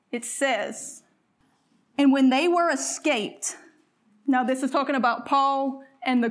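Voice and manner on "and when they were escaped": slow, lifted scripture reading. Acted. Preacher reading scripture slowly to the congregation. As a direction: read the verse out slowly to the church.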